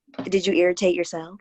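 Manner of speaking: usual speaking voice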